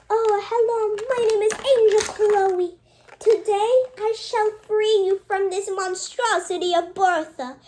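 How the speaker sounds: high, loud heroic announcement; high loud angel proclamation; grand angel voice. Acted. Angel character introduces herself.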